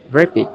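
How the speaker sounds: "graphic" with GRA punched; GRA-phic, weight on the second-last syllable; stress on penultimate syllable. Shown as a demonstration. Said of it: "Stress on penultimate syllable".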